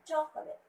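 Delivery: "chocolate" as CHOC-o-late; weight on CHOC in "chocolate", the rest lighter; stress on first syllable. Shown as a demonstration. Teacher explaining the stress, "chocolate" stressed on its first syllable. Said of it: "stress should be at the first syllable".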